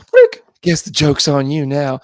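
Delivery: lightly voiced slow Fitz one-liner; a hint of Fitz delivering a cheesy quip; Fitz impression. Cohost retelling Fitz's cheesy one-liner, lightly voiced. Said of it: "Great Fitz impression".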